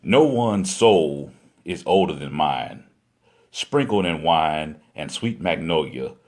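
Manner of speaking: measured spoken-word delivery in phrases; poem recitation. Acted. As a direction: recite it like spoken-word poetry, letting each line fall at its end.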